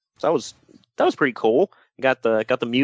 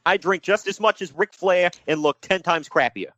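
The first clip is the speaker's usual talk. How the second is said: mock New York accent, higher-pitched brag; Buddy Landell; 4 semitones higher than usual. Host playing Ric Flair's lookalike, mock New York accent. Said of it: "I don't know why I'm doing that accent".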